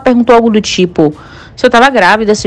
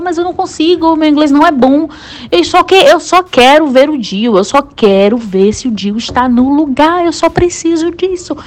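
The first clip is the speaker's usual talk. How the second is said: pleading frustration; 5 semitones higher than usual. Retold or imitated. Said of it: "Aí eu falava".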